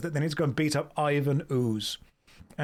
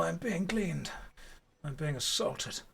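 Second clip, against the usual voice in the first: whisper; 6 dB quieter than usual. Real, not acted. Dog licking her face.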